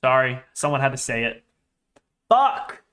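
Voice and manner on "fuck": sharp, high, loud curse; frustrated shout. Real, not acted. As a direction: blurt it out in frustration. Trades moving without him.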